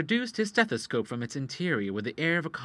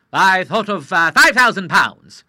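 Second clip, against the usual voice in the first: higher, louder halting request; hesitant Admiral; 7 semitones higher, 14 dB louder, slower than usual. Acted. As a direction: force out the sum awkwardly. Admiral naming the sum.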